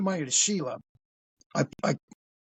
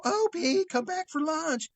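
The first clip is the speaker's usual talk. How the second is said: high, drawn-out motherly call; high singsong holler, stretched out; Aunt B; 9 semitones higher, slower than usual. Retold or imitated. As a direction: call a child in for lunch. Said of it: "expected to see Aunt B go".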